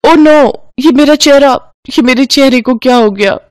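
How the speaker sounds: put-on young woman panicking at the mirror; startled, upset exclamation; panicked cry. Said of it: "वो जोर से चिल्लाते हुए".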